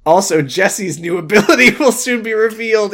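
loud, high, sung hype; epic announcer. Acted. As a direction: belt it like a trailer.

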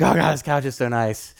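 high, laughing gush over the couch; giddy laughing praise; delighted gushing. Retold or imitated. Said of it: "I'm like".

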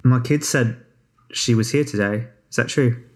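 a light touch of Australian; mother's question in a mild Australian accent; slight Australian accent. Acted. Mother checking her kid's story with a visitor, slight Australian accent. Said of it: "with a slight Australian accent from Baftoma".

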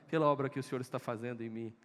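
ordinary talk

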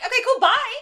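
very high, loud, hammed-up sign-off; mock hasty goodbye. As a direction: imitate an awkward, over-bright escape. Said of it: "she's like".

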